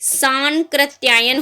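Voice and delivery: सांकृत्यायन drawn out slowly with only one S; slow teaching model of सांकृत्यायन, nasal straight into K; correct single S. Shown as a demonstration. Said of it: "सांस नहीं होगा".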